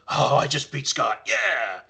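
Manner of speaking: mock the small-timer proud of a lucky win; gloating little guy. League player teasing after beating Scott, mildly gloating. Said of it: "it makes the little guys go like".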